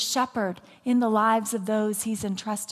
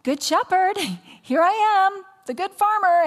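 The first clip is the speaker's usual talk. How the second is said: laughing plea; 8 semitones higher, 3 dB louder than usual. Retold or imitated. I was like.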